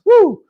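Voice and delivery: high loud whoo; woo exclamation. Real, not acted. Host exhales after a grim point, high loud woo. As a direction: let out a sharp high woo. Reacts after remark on mistreatment.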